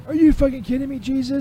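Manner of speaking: outraged. Acted. Caller outraged at being recalled.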